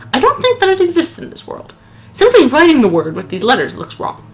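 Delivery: solemn journal reading; dramatic note reading. Acted. Gamer reads the character's note aloud to his friend, solemn. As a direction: read the nobleman's journal with gravity.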